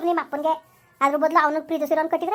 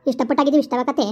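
loud furious cursing; angry scolding; 5 dB louder than usual. Acted. Mother loudly curses son and bans him from the house. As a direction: disown him, shouting.

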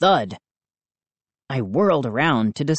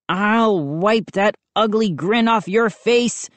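high-pitched yell at no great volume; mock yell; 6 semitones higher than usual. A narrator's reading. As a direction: threaten him in a raised pitch. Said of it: "I yelled at Chip".

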